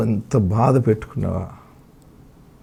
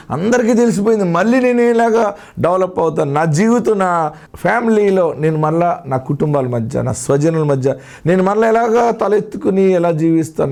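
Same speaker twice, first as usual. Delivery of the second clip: voiced despair; 8 semitones higher than usual. Voicing the shamed believer's despair.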